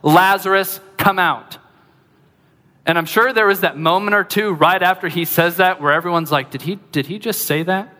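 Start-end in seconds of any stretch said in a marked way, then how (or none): 0.0-1.6 mild imitated shout, pitched higher; restrained retold yell. Preacher voicing Jesus calling a dead man from his tomb, restrained yell. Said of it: "in front of a tomb and yells". 6.5-7.9 hushed incredulous question, rising at the end; mock disbelief. Preacher voicing onlookers after the command, mock quiet disbelief. Imagined stunned onlookers at tomb.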